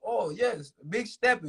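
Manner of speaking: high-pitched pretend Swiss voice; mock Switzerland accent. Rapper imagining fans in Switzerland, mock Swiss accent. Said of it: "that was a Switzerland accent".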